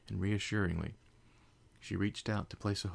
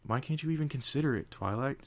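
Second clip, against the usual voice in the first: edgy; 7 semitones higher than usual. Acted. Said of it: "edginess creeping into his voice".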